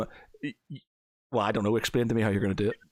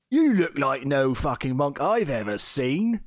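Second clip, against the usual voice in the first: higher, swooping in-character voice; suspicious local challenger; 4 semitones higher, 4 dB louder than usual. Acted. Game master as local man eyeing a monk, suspicious. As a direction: size them up with exaggerated, swinging pitch.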